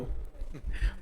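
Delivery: quiet, breathy chuckle; short soft laugh under the breath; amused little huff. Real, not acted. Chuckles while teasing about practice.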